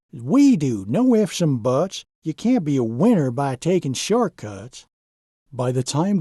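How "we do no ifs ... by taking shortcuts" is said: a lightly voiced, firm foreman; stern Zane. Zane scolding Donald about shortcuts, lightly stern. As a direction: lay down the rule calmly and firmly. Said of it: "Zane spoke sternly".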